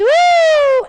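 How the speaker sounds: a sudden, high, loud whoop of praise; joyful worship shout. Shown as a demonstration. Preacher showing the congregation his worship shout, loud whoop. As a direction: let out a piercing cry of joy. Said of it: "Quando eu grito".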